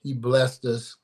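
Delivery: awed. Retold or imitated. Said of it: "you look back and say".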